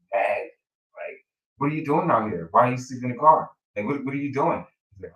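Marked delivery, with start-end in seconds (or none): 1.6-4.6 lightly voiced wife, annoyed and demanding; mock angry wife. Wife catches husband sleeping in car, annoyed and demanding. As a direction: press him like an irritated wife.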